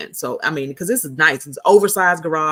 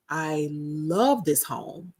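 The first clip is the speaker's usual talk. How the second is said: awed love; 5 dB quieter, much slower than usual. Retold or imitated. Retold first reaction to house.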